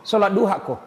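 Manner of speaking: ordinary talk, nothing marked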